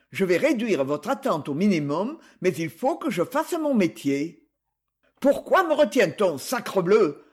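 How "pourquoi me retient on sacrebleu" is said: loud, furious outburst; thundering in rage. Acted. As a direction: bark it out at the height of rage. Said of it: "Tonna l'autre au comble de la rage".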